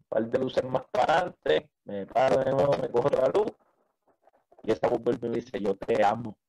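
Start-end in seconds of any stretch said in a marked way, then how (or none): 5.6-6.4 gentler, restrained declaration; sublime. Retold or imitated. The voice returns at the next light, more sublime. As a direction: say it tenderly, without force. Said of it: "pero ya como más sublime".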